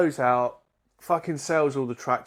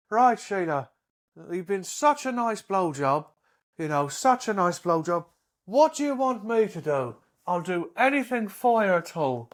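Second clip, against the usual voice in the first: bad Irish accent; 5 semitones higher than usual. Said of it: "I'll try and do a bit of an Irish accent".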